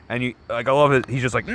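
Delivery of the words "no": long drawn-out mock wail of NO; retold anguished cry. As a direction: stretch it out like a comic-book hero's cry. Retelling Batman's cry at failing.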